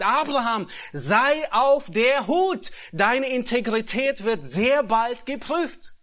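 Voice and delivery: loud, high and slow urgent warning; God's warning. Acted. God warning Abraham of a coming test, loud and urgent. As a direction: call out a warning from above.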